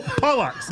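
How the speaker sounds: "pollux" as POL-ox, with a K before the S; imitated mispronunciation. Telling co-host he sounds like a fish name, "pollux" with "ks". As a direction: mimic the slip, "pollux" ending in "ks". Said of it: "You sound like you said".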